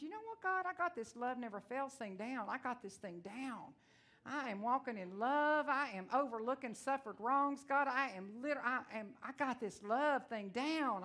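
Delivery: hammed-up cocky bragging to God; mock-proud declaration with a lifted opening; self-satisfied boast. Mocking own past boast to God.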